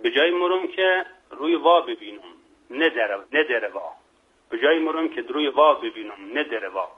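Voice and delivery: Mashhadi proverb delivery; Mashhadi accent. Shown as a demonstration. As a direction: quote a saying in thick Mashhad dialect. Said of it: "حالا لهجهٔ مشهدی".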